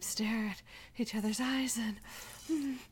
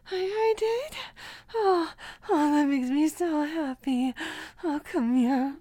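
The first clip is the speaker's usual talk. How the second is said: delighted outburst; 2 semitones higher, 5 dB louder than usual. Acted. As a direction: burst out with joy. Overjoyed at finding her mate.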